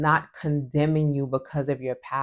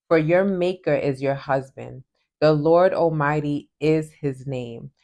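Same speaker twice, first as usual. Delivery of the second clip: measured, earnest Bible reading; scripture reading. Acted. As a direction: devotional reading aloud. Reads scripture aloud.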